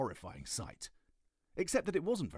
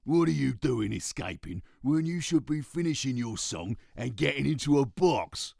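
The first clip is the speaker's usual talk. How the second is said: loud, higher scolding; angry badger shout; 7 semitones higher, 11 dB louder than usual. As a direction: tell off the escaping kids.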